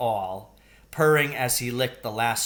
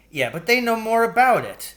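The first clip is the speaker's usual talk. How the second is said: higher, louder retort; arguing boy; 11 semitones higher, 7 dB louder than usual. A narrator's reading. Paul arguing back at his brother, louder. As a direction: argue back hard.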